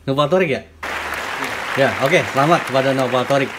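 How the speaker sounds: loud, upbeat congratulations; excited congratulations. Real, not acted. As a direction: cheer the winner on. Confirming and congratulating the winner.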